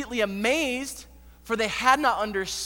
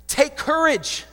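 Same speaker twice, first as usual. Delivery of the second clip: raised, firm call across water; calling out reassurance; 3 dB louder, slower than usual. Acted. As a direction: call out to frightened friends, pausing between phrases. Jesus calls out to frightened disciples.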